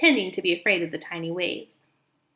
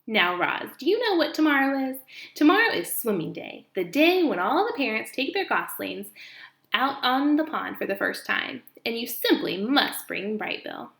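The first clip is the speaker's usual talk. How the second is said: a hint of a fussy old goose; bossy old goose; 2 semitones higher than usual. Old goose tells Roz news.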